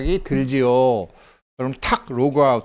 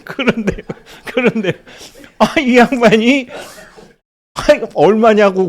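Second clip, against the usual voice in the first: laughing retelling; 10 semitones higher, 10 dB louder than usual. Retold or imitated. Retelling pushy customer, laughing.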